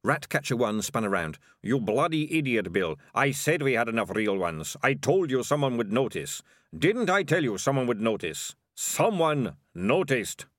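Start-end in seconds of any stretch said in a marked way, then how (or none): 1.6-10.5 exasperated scolding. Acted. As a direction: berate your bungling partner. Thug berating his careless partner.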